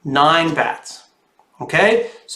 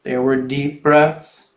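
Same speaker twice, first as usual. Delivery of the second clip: put-on lively storybook reading for kids; reading to children. A narrator's reading. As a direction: read it like a picture book to little ones. Reads picture book to children.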